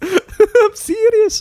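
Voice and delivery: put-on very high, drawn-out Scottish child voice; Scottish kid. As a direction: squeal it like the Scottish kid, laughing. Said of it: "it's a Scottish kid".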